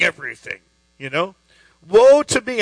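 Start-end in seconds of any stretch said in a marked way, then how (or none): 1.9-2.6 loud, higher-pitched cry of woe. Acted. Isaiah before the Lord, crying out in woe. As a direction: cry it out with sudden force. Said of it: "I cried".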